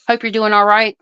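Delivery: reading a chat message. Shown as a demonstration. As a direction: read it off the screen, lifted. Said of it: "oh, I'll say".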